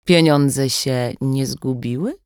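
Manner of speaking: slow, fake-sweet taunt; cold mockery. Kidnapper taunting the mother by phone, slow mock sweetness. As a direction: drip false sweetness over the threat. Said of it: "zimna kpina w głosie i udawana słodycz".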